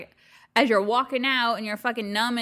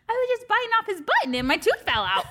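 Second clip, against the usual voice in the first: tipsy giggling through the words; 11 semitones higher, faster than usual. Real, not acted. Laughing, tipsy.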